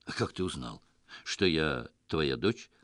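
spoken without opening teeth; through gritted teeth. A narrator's reading. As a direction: grit your teeth and ask. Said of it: "не разжимая зубов".

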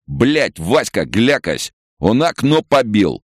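high, drawn-out angry cry; alarmed shout. A narrator's reading. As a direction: yell to a mate in alarm. Attacker calls out as window breaks.

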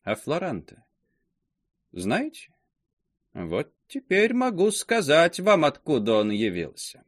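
put-on creaky old gossip voice. A narrator's reading. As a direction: creak it out, teasing the secret. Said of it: "скрипучим голосом начала".

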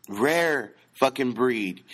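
each word slowly punched; "Rare fucking breed" spelled out slowly, word by word; slow emphasis. Shown as a demonstration. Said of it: "who has that rare breed".

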